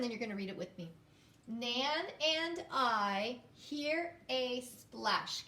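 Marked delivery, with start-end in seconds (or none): 1.5-5.5 very slow, word by word; slow reading aloud. Shown as a demonstration. Teacher rereading the sentence slowly. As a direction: read it again slowly. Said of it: "I'm gonna read it again".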